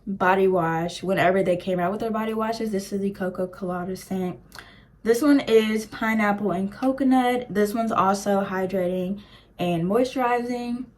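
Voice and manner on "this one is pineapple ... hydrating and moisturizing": slightly hoarse, voice going; talking through a hoarse throat. Real, not acted. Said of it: "I feel like I was losing my voice".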